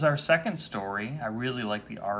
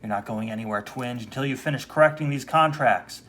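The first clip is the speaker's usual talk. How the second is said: scolding boss; 6 dB louder than usual. Acted.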